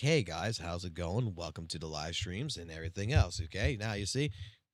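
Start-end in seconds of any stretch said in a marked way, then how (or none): 0.0-3.4 lowered, brought-down delivery. Speaker demonstrates greeting livestream viewers, in a lowered voice. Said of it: "try to lower it and be like".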